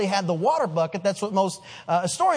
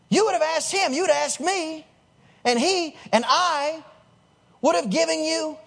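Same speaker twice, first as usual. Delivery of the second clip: higher-pitched, measured and emphatic; weighty proclamation; 5 semitones higher than usual. Acted. Jesus tells the woman who she is talking to, momentous. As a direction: let each phrase hang, full of import.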